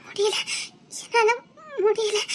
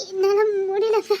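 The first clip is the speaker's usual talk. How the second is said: crying in pain; 2 semitones lower than usual. Acted. Wife crying in labour pain.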